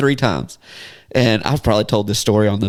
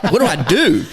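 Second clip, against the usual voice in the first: higher-pitched mock panic with a laugh; laughing through a mild retold panic; retold freak-out; 7 semitones higher than usual. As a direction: play up a clueless little panic, amused. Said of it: "I had the freak out moment".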